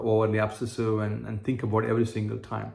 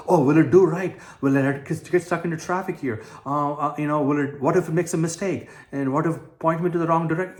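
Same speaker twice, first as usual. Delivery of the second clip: fast, higher, anxious questioning of the GPS; obsessive worry; 5 semitones higher, 3 dB louder than usual. Retold or imitated. A traveller doubting the GPS, mock anxious fretting. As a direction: fret that the map will fail you. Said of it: "you don't obsess about".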